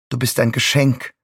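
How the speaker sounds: sugary mother. A narrator's reading. Mother voiced in story.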